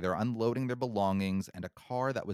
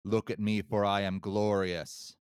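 sinister apparition. Retold or imitated. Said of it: "the voice then says again".

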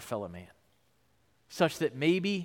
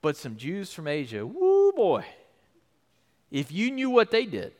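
sudden realization. Retold or imitated. Paul suddenly remembering his accusers, startled. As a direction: let the thought hit mid-sentence. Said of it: "boom, it hits him".

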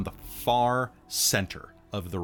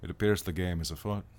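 thick Scottish brogue; 3 dB quieter, faster than usual. Acted. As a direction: speak it in a heavy Scottish brogue. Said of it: "in a thick Scottish brogue".

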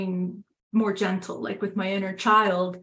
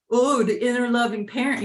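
mocking sneer; 2 semitones higher, faster than usual. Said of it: "what a weak wallflower".

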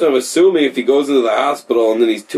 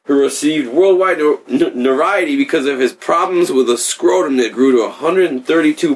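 mock newscaster reading a story; news anchor voice; 3 semitones higher than usual. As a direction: read the headline like a TV anchor. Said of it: "news anchor voice".

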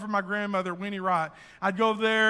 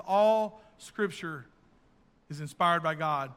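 slow solemn reading; 4 semitones lower, slower than usual. Shown as a demonstration. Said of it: "very first verse says".

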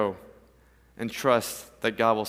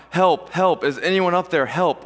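mild mock call for help, pitched higher; acted cry for help; 3 semitones higher, 3 dB louder than usual. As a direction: call out for rescue without fully shouting. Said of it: "So he starts crying out".

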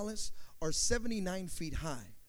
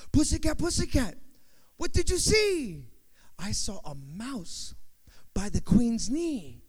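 high, louder questioning voice, slow reply; sing-song nursery rhyme; 3 semitones higher, 5 dB louder than usual. Retold or imitated. Pastor reciting his father's rhyme to the church, sing-song. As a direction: call out the question, then answer it slowly. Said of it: "nursery rhyme that my father used to always share".

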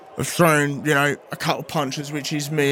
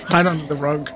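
whisper. Pretend. Hiding from someone in hallway.

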